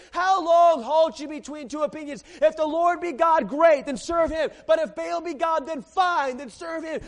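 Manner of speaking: loud, high, commanding call to the people; Elijah with authority. Retold or imitated. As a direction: thunder it at the prophets of Baal. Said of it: "he stood up there with authority".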